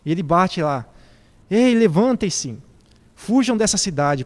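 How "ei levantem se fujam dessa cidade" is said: mildly raised, higher urgent call; retold warning call. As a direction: imitate calling out to wake the household. Retold warning called at relatives' door. (chamado de alerta, levemente exaltado)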